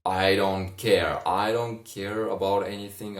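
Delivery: almost shouting I don't care. Acted. Drunk Ron despairing.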